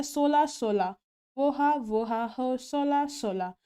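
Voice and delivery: loud hallooing call. Retold or imitated. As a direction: call out into the night, sing-song. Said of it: "वो चिल्ला रहा होता है".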